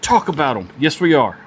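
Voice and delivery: nerding out over the knives, squealing with excitement; real excitement. Real, not acted. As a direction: voice jumps way up with delight. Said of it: "I'm so excited right now".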